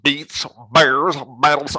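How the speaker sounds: loud, put-on Dwight quote; mock fan quote. Fan heckling Rainn Wilson in the street, loud mock quote. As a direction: bark it like an annoying fan. Fans quoting The Office at him.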